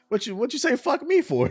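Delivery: high-pitched, comically offended comeback; mock indignant protest. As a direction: act hurt and affronted, breaking into laughter. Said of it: "I'd be like".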